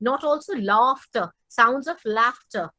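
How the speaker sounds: "laughter" slow, r left silent; "sounds of laughter" drawn out, no r at the end; soft r laughter. Shown as a demonstration. Teacher showing the silent r in "laughter". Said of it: "মানে একদম laughter বলা দরকার নেই".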